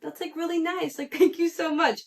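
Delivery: high-pitched, sweetly touched imitation; really sweet. Friend thanking the guy for saying goodnight, really sweet. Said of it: "really sweet".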